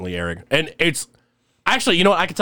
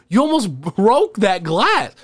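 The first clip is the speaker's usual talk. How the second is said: higher, slow scolding line; 9 semitones higher, slower than usual. Retold or imitated. Warning a drunk friend about the bottle, slow scolding. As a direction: scold him, dragging the words out.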